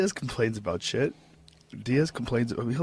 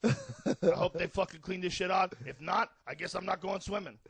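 quiet impression; 4 semitones higher, 9 dB quieter than usual. Joe impression goes hushed.

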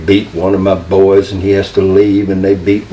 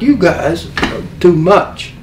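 higher, drawn-out mock protest; mock angry; 8 semitones higher than usual. Angry partner scolding the attackers, mock angry. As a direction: imitate an indignant complaint. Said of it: "He's mad".

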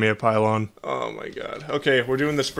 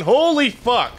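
shocked; 10 semitones higher, 4 dB louder, slower than usual. Real, not acted. Sudden shock in game.

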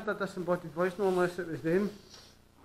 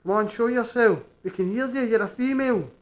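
raised voice, carrying through the building; calling out; 2 semitones higher, 5 dB louder than usual. Real, not acted. Ghost hunter to unseen spirits, calling out. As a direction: call out a challenge to someone unseen.

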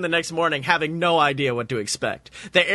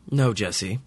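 gentle; 5 semitones lower than usual. A narrator's reading. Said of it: "Walt's voice is gentle".

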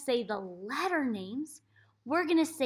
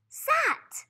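whispered word; 3 dB louder than usual. Shown as a demonstration. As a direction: breathe "sat" as a secret. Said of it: "and it says".

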